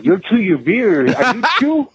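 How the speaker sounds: imitating her, pitch leaping high on the question; excited recognition. Co-owner's wife recognizing the caller at the food truck, excited recognition. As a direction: mimic a woman's amazed high-pitched recognition. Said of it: "She says it like this".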